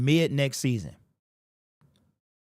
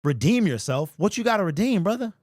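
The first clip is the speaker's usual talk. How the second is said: emotional disbelief; 4 semitones higher than usual. Real, not acted. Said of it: "It literally is getting me emotional right now".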